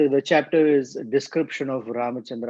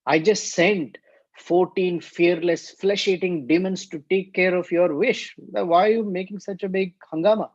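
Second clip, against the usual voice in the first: mildly exasperated acted scolding, pitch climbing; irritated; 5 semitones higher than usual. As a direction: demand an explanation with rising irritation. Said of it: "Then he got irritated and said".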